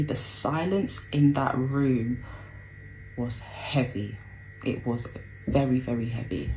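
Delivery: real heaviness, letting the voice sink; heavy, subdued. Real, not acted. Describing the heavy silence.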